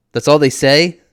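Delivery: loud, high incredulous question; blurted disbelief. A narrator's reading. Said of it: "I blurt out".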